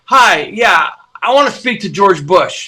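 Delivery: put-on a drunk caller demanding the president; brash request. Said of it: "He's like".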